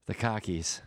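"cockies" with no R, as in local car keys; "cockies" with a broad open vowel and no R. Shown as a demonstration. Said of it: "difference between how they pronounced car".

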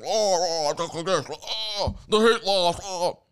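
hammed-up sportscaster lady groaning oh; mock female announcer. Mocking the Heat game commentator, lightly hammed-up voice. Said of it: "She talks like that, right?".

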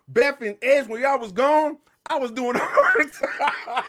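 lightly mock his tough claim, laugh on the end; imitating a wrestler. Host mimics wrestler's boast to Beth and Edge, laughing. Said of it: "He said".

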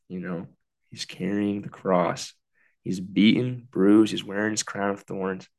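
measured prayer with long pauses; heartfelt spoken prayer. Real, not acted. Podcaster praying to Jesus for the listeners, reflective. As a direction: lead listeners gently into prayer, pausing between phrases. Leads prayer and guided imagining.

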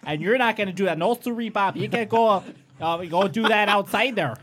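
a bride in a huff; shrill frantic demanding. Retold or imitated. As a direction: scold them off her big day. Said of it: "she was like".

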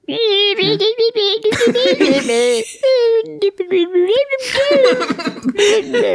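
high rapid chittering noises; squirrel chatter. Acted. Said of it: "that's a pretty good squirrel impression".

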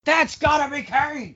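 excited shout. Real, not acted. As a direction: burst out in excitement. Echoing pick excitedly.

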